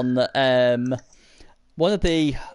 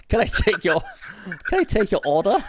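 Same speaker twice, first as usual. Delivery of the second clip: a hint of a bored counter clerk, higher; bored fast food cashier; 5 semitones higher than usual. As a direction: take an order like a cashier. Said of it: "I feel like you're a receptionist".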